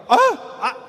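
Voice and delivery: high startled yelp; shocked gasp. Retold or imitated. Young man hearing his tax bill, high shocked yelp. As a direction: blurt it out in panic. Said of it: "I'm like".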